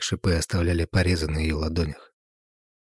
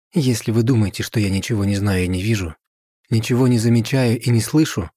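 louder and higher, voice rising in anger; angry outburst; 4 semitones higher, 4 dB louder than usual. Acted. Wife at dinner confronts husband and friend, angry and raised. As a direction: let the hurt burst out at last.

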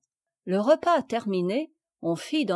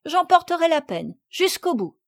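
put-on bright higher cheerful girl; 7 semitones higher, 4 dB louder than usual. A narrator's reading. Sophie cheerfully accepts her penance, higher and gay. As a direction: say it gaily, taking the blame lightly. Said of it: "dit Sophie avec gaieté".

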